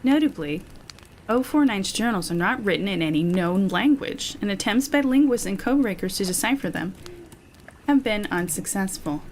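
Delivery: measured, articulate report reading; steady narrator delivery with emphasis on key words; document narration. A narrator's reading. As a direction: read it out like a case file. Reads a written report aloud.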